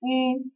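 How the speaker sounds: I said with the tongue kept for i but the lips rounded forward like u; lips pursed. Shown as a demonstration. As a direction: say I with pushed-out lips. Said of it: "bibirnya monyong".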